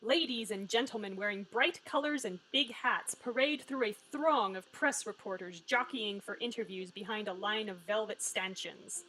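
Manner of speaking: story narration. Acted. Reads the game's scene narration.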